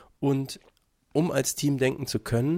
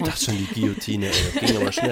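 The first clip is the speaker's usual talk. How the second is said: laughing; 5 semitones lower, 3 dB louder, faster than usual. Real, not acted. Laughing at the guillotine joke.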